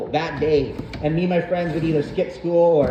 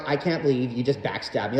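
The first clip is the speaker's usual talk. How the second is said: a lightly voiced, wounded Kardashian; hint of a hurt diva; mock Kardashian; 4 semitones lower, 4 dB quieter than usual. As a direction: act offended like a betrayed socialite. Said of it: "the way how a Kardashian would feel backstabbed".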